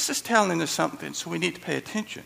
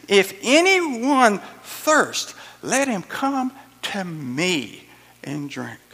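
crying out; 5 dB louder, much slower than usual. Acted. Jesus calling to the feast crowd, slow loud cry fading. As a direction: call out to the crowd, then let it settle.

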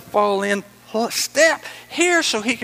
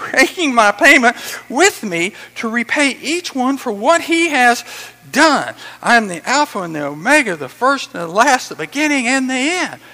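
raised, loud scripture proclamation; excited shout; 5 semitones higher, 6 dB louder than usual. Acted. Preacher voicing Jesus promising to repay each one, excited proclamation. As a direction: declare it with mounting excitement. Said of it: "He shouts this out".

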